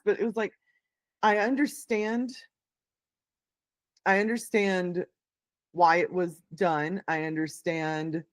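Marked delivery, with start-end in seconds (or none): 1.2-8.2 slow and thoughtful. Real, not acted. Slow reflective repetition.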